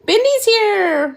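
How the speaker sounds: drawn-out, high sing-song hello; excited greeting. Real, not acted. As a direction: call out a slow, delighted greeting. Greeting a viewer arriving.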